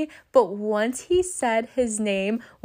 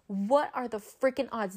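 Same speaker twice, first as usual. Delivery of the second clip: much softer, back at normal pitch; muted disbelief; 8 dB quieter than usual. Retold or imitated. Repeats it, dropping the voice.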